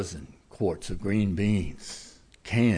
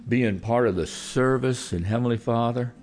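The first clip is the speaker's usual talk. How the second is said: earnest closing prayer to God. Acted. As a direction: pray over the congregation.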